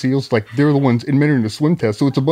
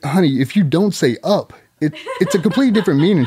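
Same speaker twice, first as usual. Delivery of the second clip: higher, fast, half laughing; laughing explanation; 6 semitones higher, faster than usual. Retold or imitated. Husband explaining the slang, laughing. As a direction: explain it while cracking up. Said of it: "I'm like".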